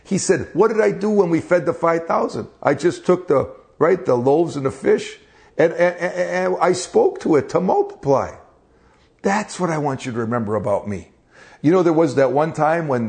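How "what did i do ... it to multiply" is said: higher, exasperated scolding; annoyed. Retold or imitated. Jesus reminds the apostles of the loaves, exasperated. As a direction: remind them impatiently. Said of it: "Jesus was so annoyed with the apostles".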